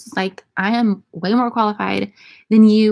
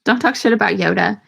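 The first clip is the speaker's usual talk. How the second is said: usual speaking voice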